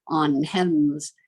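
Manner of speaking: "heaven's" squeezed into one slow syllable, heav'ns; contracted syllable. Shown as a demonstration. Teacher showing what we do when we sing, "heaven's" contracted to one syllable. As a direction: say "heaven's" without its second vowel. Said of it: "to get rid of one extra syllable".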